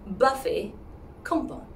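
buffet with a P, compon clipped; wrong take pompon; mispronounced buffet compon. Shown as a demonstration.

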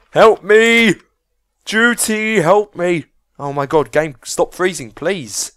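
high, loud desperate pleading; begging yells; frantic cries for help. Real, not acted. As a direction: call out for rescue in full panic. Calling for help, game frozen.

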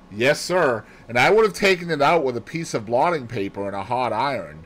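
a hint of a bustling servant girl; confident maid Annie. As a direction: answer promptly as a capable maid.

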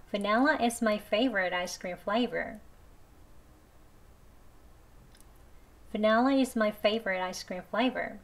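every word spoken very slowly, "Vanilla" with an e; slow careful reading, e vowel; slow e version. Shown as a demonstration. Teacher reading the ice cream sentence slowly, e version. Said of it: "Vanilla로 해볼게요".

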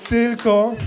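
normal talking voice

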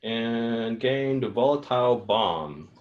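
slow, flat robot voice. Acted. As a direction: speak like a machine, slow. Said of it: "Now you sound like a robot".

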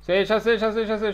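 said through a laugh; laughing at teammate. Real, not acted. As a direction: laugh while answering. Laughing reply.

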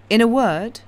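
Madame's voice. A narrator's reading.

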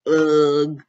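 loud, low strained grunt; straining grunt. Acted. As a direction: push hard as if stretching. Straining to stretch neck.

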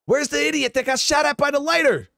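high, mocking parade-ground bark; sergeant major call. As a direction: call out the idiot to the whole battalion. Sergeant major calls out battalion.

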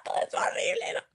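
breathy, whispered despair, hammed-up; mock tragic whisper of gloom; mock pessimistic moan. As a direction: moan like life is hopeless. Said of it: "el más pesimista de que".

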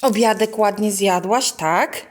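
mother chats with her little daughter about her toy. Real, not acted. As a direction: coax the little one along. Talking to toddler.

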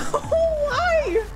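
high, helpless laughing wail; laughing to tears. Real, not acted. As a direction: wail the words through real laughter. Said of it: "I'm laughing that I'm starting to cry".

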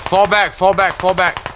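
shouting orders over battle. Real, not acted. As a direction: yell the retreat order. Squad leader calling retreat in battle.

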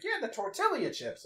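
"tortilla" said tor-TILL-ee-a, high-pitched; imitated mispronunciation. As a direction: sound out the Ls in "tortilla" as a lady customer. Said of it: "there's extra I's in there".

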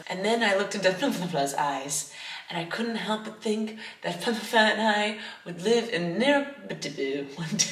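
reading through giggles; laughing while reading. Retold or imitated. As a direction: stumble over names, laughing. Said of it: "they're like".

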